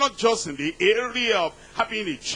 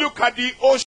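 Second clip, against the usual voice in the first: raised, commanding preacher's God; louder, higher divine command; Almighty God; 4 semitones higher, 5 dB louder, faster than usual. Acted. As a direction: proclaim it loudly as God. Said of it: "Almighty God said".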